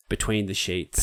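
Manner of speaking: breathy whispered show title. Shown as a demonstration. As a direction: whisper the segment name. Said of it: "we like to call it".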